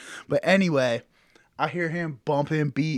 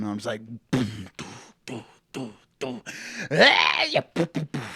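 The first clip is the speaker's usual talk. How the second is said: mock beat; 2 semitones lower than usual. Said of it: "some dead mouse".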